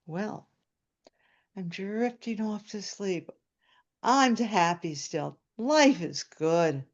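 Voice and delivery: slow, contented, dreamy delivery; blissful drifting off. Retold or imitated. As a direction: draw it out like sinking happily into sleep. Acts out blissful drifting to sleep.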